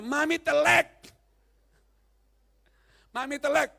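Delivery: a hint of a pouting toddler mumbling; child's unclear speech. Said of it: "Nggak jelas ngomongnya".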